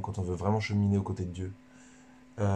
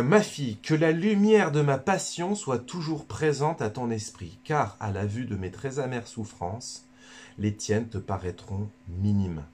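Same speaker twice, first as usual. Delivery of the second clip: Jesus speaking; 2 semitones higher than usual. Acted. Jesus speaks to Luisa, a solemn reading voice. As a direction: read the words as Jesus, grave and tender. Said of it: "c'est Jésus qui parle à Luisa Picaretta".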